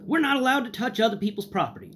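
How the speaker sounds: high, prissy staff voice; mock the clerk's rule-bound brush-off; imitating a prim librarian; snooty refusal. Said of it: "is what I get in response".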